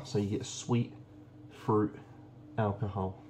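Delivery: each word "sweet", "fruit", "alcohol" punched out separately like a karate chop; chopped words. Real, not acted. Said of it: "Don't know why I'm doing that".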